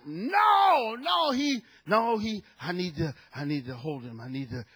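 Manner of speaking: plead, then trail off to almost nothing; wife's pleading refusal. Retold or imitated. Wife refuses to let go.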